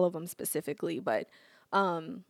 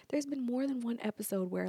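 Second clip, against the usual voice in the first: conspiratorial whisper; 2 semitones higher, 8 dB quieter than usual. Shown as a demonstration. To viewers, sharing a juicy secret, whispered. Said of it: "Get this".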